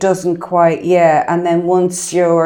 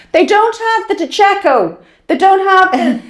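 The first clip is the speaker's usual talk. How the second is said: high, louder mock distress; mock indignation; 11 semitones higher, 4 dB louder than usual. Retelling mum's pasta sauce complaint, mock distressed. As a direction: wail it like a put-out shopper. Acting out her mother's supermarket upset.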